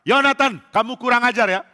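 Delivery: high, loud furious scolding; very angry king. Acted. Saul insisting his son succeed him, furious shouting. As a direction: thunder at a disobedient son. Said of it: "Saul marah sekali".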